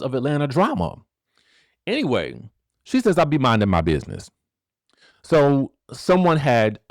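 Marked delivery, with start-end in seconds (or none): 3.2-4.3 quick twangy Southern quote; a singer's twang. Retold or imitated. Quoting a singer's tweet again in a quick twang. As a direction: toss the line off in a light twang. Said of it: "a little twang to the voice".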